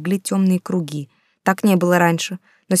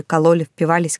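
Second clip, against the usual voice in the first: plain reading voice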